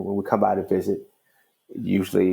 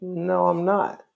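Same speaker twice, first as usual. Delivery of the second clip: slow, high, snippy dismissal; a little stank; 9 semitones higher, much slower than usual. Retold or imitated. Judge coldly dismissing the visitor, slow snippy. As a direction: drag it out with attitude. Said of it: "with a little stank".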